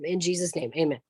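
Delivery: earnest spoken prayer. Acted. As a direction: pray it out for the group. Closing the prayer.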